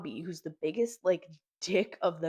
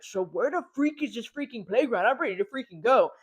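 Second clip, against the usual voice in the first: put-on impatient kid; 5 semitones higher, 6 dB louder than usual. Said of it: "Bobby's being stupid".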